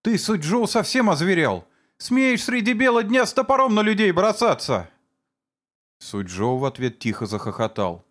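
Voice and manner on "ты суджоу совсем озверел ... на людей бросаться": high, louder fearful outcry; frightened exclamation. A narrator's reading. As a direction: cry out in fright and outrage. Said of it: "в страхе воскликнула". (испуганный возмущённый крик)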